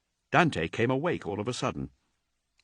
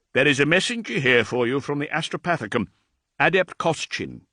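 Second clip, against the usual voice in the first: a hint of a higher, deferential servant; lightly voiced old thrall; 6 semitones higher, 4 dB louder than usual. Aged thrall reassuring Dante, lightly voiced and deferential. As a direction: answer your lord with humble care.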